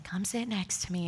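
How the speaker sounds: soft, gentle husband voice; hushed loving coaxing; empathetic and loving. Retold or imitated. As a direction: invite quietly and kindly. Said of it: "so empathetic and loving".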